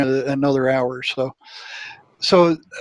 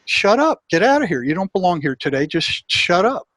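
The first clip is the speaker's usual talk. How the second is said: sharp retold shout; 2 semitones higher than usual. Telling his own doubting mind to leave, in a sharp mock yell. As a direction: push the nagging thought away with a mock yell.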